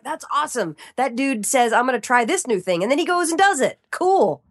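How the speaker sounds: impressed friends gushing; impressed enthusiasm. Retold or imitated. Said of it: "They're all like".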